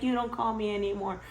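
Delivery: playfully put-on hurt; mock tearful. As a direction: imitate a nephew's tearful guilt trip. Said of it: "Tear, tear".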